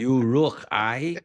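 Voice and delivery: slow hammed-up Asian accent; mock Asian accent. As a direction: drag out the joke accent. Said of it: "with an Asian accent".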